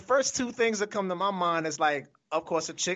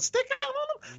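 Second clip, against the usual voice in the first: shocked surprise. Retold or imitated. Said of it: "I'm like".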